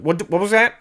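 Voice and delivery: high, loud, indignant what-was-that; imitated furious challenge, rising to a yelp; mock outraged comeback. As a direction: play the hothead wheeling on someone. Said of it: "And he's like".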